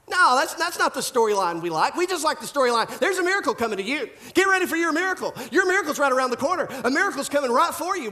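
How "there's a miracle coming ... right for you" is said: mock hype preacher. Mocking the storyline we like.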